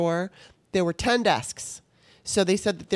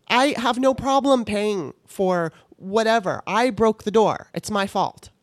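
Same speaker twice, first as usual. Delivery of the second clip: exasperated; 4 semitones higher than usual. Real, not acted. Exasperated rant about IKEA.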